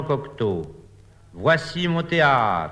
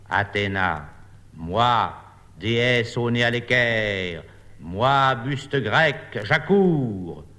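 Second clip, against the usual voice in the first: statue voice. Acted. Bust of Athena speaks.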